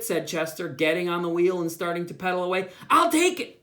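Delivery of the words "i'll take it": higher, louder eager shout. A narrator's reading. Susan shouting after Chester as he pedals away, eager and loud. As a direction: call out before he leaves. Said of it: "shouted Susan".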